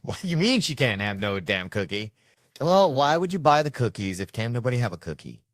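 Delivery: mildly indignant dad protesting; mock snapping. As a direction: act out a dad who got mad. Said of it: "so I got mad. I snapped".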